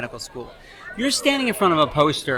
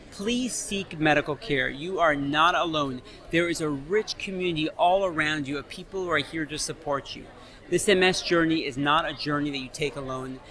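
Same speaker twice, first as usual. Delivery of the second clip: earnest reassurance; 4 dB quieter than usual. Real, not acted. Doctor urging struggling MS patients to seek care, gentle and earnest. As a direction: gently reassure them, taking your time. Appeal to viewers who feel depressed.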